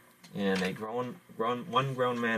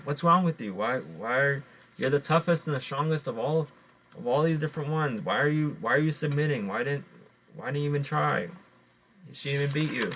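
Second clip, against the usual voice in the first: incredulous scolding; 5 semitones higher than usual. Acted. Bat scolds the coyote for submitting, higher and incredulous. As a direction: demand to know why he gave up.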